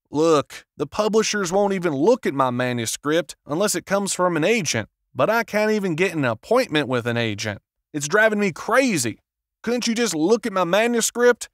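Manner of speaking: desperate plea. A narrator's reading.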